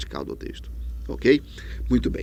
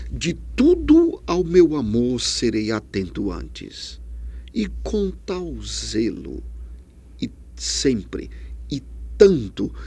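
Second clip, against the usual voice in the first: slow, lingering reading of the sonnet; poem recital; 2 semitones lower than usual. Shown as a demonstration. Teacher reciting Vinícius's sonnet to students, slow and lingering. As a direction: savour each pause of the verse. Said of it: "ele constrói o seguinte".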